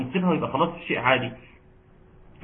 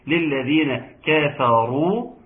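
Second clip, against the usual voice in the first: slow, drawn-out recitation; Quran recitation; slower than usual. Shown as a demonstration. Teacher recalls an earlier example, slow tajweed recitation. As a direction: recite with measured long syllables.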